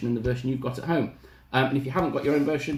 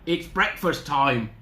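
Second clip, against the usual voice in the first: higher, faked girlish voice; squeaking wolf; 6 semitones higher than usual. Wolf posing as Little Red at the door, squeaky. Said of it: "squeaked the wolf".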